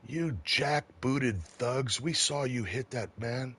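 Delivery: high, slow, mocking accusation from the crowd; heckling crowd. Bystander from the crowd jeering at the officers, high and slow. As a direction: drag out the insult like a sneering protester.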